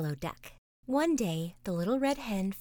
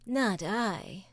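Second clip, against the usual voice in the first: sleepy cat purring. Acted. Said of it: "purred the sleepy cat".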